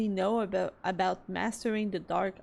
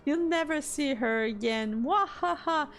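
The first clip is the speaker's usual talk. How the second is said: smug little villain, high cackles; gloating Moogle; 6 semitones higher than usual. Acted. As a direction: taunt them and cackle with glee. Moogles taunting, gloating laughs.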